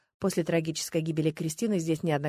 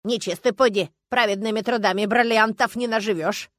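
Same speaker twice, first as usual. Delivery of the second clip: громче, ворчливо-язвительно; уколи богатую даму; язвительная бабка; 3 semitones higher, 7 dB louder than usual. Acted. Бабуля язвит в ссоре. (язвительно, громче)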